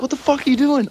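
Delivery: incredulous mock yell, very high; retold yelling. Freezing guy confronting drunk friend at the door, yelling.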